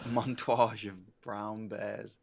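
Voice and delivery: slow, soft hushed narration; nature documentary narrator. Pretend. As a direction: breathe it like a wildlife film. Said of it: "speak such hushed tones".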